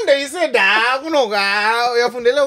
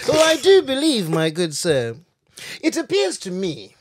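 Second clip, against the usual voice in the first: put-on old English. Friend showing off his old English on request, mock formal. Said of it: "that old English".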